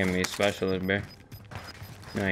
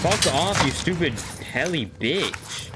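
swearing tirade; 5 semitones higher, slower than usual. Real, not acted. Cursing at enemy helicopter.

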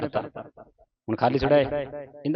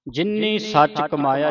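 slow, drawn-out measured chant; slow scripture recitation; slower than usual. Shown as a demonstration. Teacher reciting scripture slowly for a student. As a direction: recite slowly, pausing at each stop.

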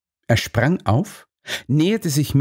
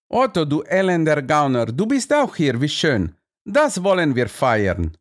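singsong undertone; 5 semitones higher than usual. A narrator's reading. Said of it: "mit singendem Unterton zu sprechen".

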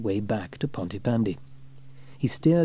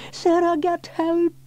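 urgent call; 3 dB louder, slower than usual. A narrator's reading. James stranded in river.

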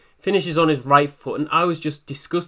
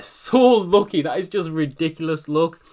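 laughing relief. Real, not acted. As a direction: laugh it out in disbelief at the luck. Lucky penalty save, laughs.

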